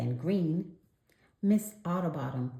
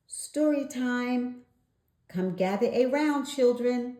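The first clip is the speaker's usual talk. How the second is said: announced; 8 semitones higher, 4 dB louder than usual. A narrator's reading. Miss Otterbottom calls children to story time, high and cheerful. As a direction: invite the children like a librarian. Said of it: "Miss Otterbottom announced".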